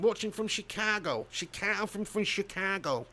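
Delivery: tentative Chicago accent attempt. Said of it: "How do they speak?".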